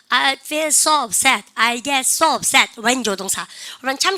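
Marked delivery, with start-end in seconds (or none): 0.1-1.5 so stretched long and slow; stress on so. Shown as a demonstration. Teacher modeling a phrase to class, slow stretched so. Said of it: "그러면요". 1.6-2.7 so held long, falling end; stress on so. Shown as a demonstration. Teacher drilling the class on get so upset, slow and stretched. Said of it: "그러면요".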